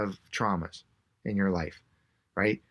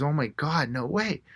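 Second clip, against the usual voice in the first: retold amazement, higher pitched; amazed disbelief; 5 semitones higher than usual. Cyclist learns of ride from California, imitated mild amazement. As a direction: mildly imitate a stranger's delighted disbelief. Voicing woman's amazed reaction.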